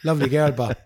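put-on Dundalk accent. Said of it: "One that got Marissa".

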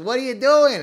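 high, loud shout; heckling yell. Retold or imitated. Old guy yelling at the actor in costume, high and loud. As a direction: yell it at him from across the lot. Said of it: "He goes".

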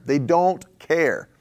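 each word dragged out, very slow; slow, heavy preacher's repeat; slow emphatic repeat. Acted. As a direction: let it sink in slowly.

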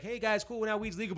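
high, loud, chirpy official voice; mock official announcement. Voicing lawmakers announcing legal weed.

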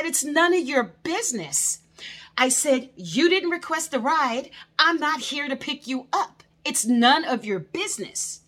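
high, loud mock scolding; retold angry telling-off to the neighbors; indignant telling-off. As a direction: put them firmly in their place. Driver snapping at neighbors.

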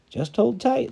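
high call from below; calling back up. Acted. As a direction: call it up from the end of a rope. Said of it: "the stranger called back".

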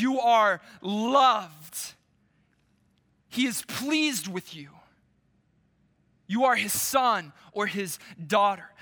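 slow, lingering, tender; slow and tender blessing; tender fatherly words. Acted. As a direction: speak it like a father reassuring a child. Preacher voices God's words.

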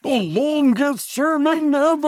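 booming high announcer call; big arena announcer hype. Pretend. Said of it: "That was my, uh, announcer voice".

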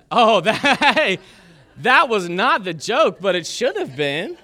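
real laughter breaking into the words; laughing. Real, not acted. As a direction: laugh through it, protesting the crowd. Laughing at crowd's reaction.

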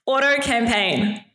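auto campaign in a slow Kiwi accent; New Zealand accent. Shown as a demonstration. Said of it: "an R at the end there".

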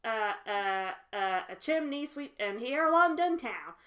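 halting fake Cockney chimney sweep; badly done Cockney, fumbling for the words; Bert from Mary Poppins. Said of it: "trying to do Bert from Mary Poppins".

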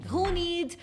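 high, loud, eager offer; eager calling out. Retold or imitated. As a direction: call out across the office, keen to help. Eager teen volunteering at office.

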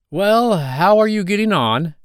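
put-on a visiting old duck calling a loud greeting. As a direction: croak it out like a nosy old duck.

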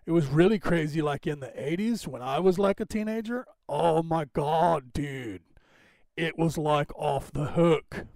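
hammed-up eighties California teen accent; California Valley accent. Shown as a demonstration. Host recalling his eighties teens, California Valley accent. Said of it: "They actually talk like that out here".

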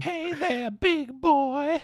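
high, breathy come-on voice; mock sultry greeting; failed seductive. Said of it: "I don't know why I went there with that".

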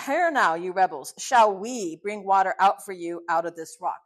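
loud, forceful address to a crowd; acted angry rebuke. Moses confronts the rebels at the rock, loud acted rebuke. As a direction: raise your voice to confront them. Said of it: "So the sinning begins".

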